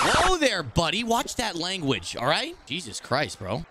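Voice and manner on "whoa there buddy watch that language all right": high startled whoa then slow mock warning; mock stern scolding. Gamer mock-scolding his swearing opponent, slow and stern. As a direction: scold him like a hall monitor, half joking.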